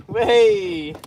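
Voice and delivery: high, loud whoop of delight; excited whoop. Real, not acted. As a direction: let out a happy whee. Landing the fish.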